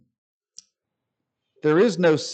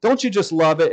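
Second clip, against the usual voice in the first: sarcastic; 3 semitones higher than usual. Acted. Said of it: "highly sarcastic here".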